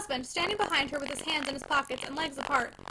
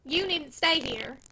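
loud dismissal; 2 semitones higher, 3 dB louder, much slower than usual. Acted. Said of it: "in a loud voice".

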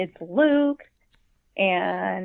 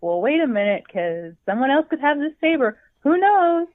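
mock skeptical; 6 semitones higher, 4 dB louder than usual. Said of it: "And I'm like".

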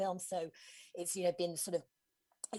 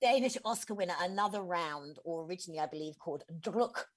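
Danish accent. Shown as a demonstration. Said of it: "That was my best Danish accent for you".

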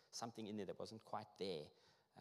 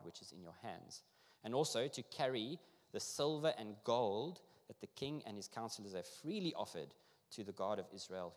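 emphatic, formal reading of a decree; scripture reading; 4 dB louder than usual. Acted. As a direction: read it out to a congregation, phrase by phrase. Reads scripture aloud.

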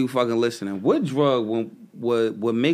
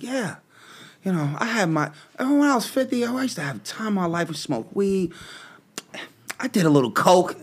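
put-on older woman voice; 5 semitones higher than usual. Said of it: "she's like".

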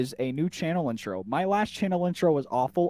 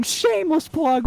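announcer voice; 12 semitones higher, 4 dB louder than usual. Pretend. Announcing a plug jokingly.

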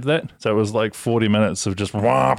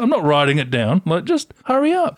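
exasperated; 11 semitones higher than usual. Retold or imitated. Exasperated rant at machine.

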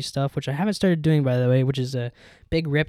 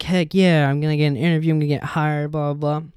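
excited; 5 dB louder than usual. Retold or imitated. Retelling own hype about interview.

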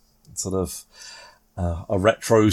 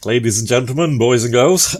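booming showman announcement; loud fairground crier call; carnival barker; 6 dB louder than usual. Real, not acted. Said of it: "I suddenly sounded like a carnival barker".

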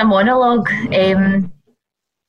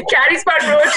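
higher-pitched tipsy announcement, breaking into laughter; a hint of drunken confidence, raised in pitch; lightly acted tipsy self; 6 semitones higher than usual. Drunk passenger giving taxi driver a home address, lightly acted tipsy.

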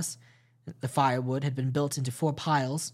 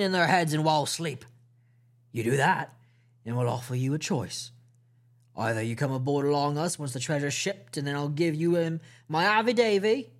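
lightly voiced wheedling pirate; a sly old sea cook bargaining; Long John Silver.

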